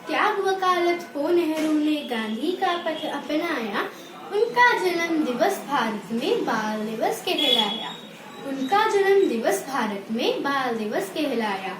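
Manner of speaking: rhythmic, sing-song school recital; poem recitation. Real, not acted. Pupil presenting a Children's Day poem to the assembly, sing-song recitation. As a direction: chant each verse in a lilting, regular beat. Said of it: "एक कविता प्रस्तुत करने जा रही हूँ".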